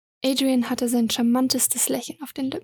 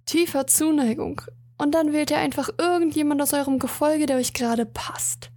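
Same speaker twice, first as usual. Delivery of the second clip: mocking; 3 semitones higher than usual. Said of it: "Jetzt lachte der Graf".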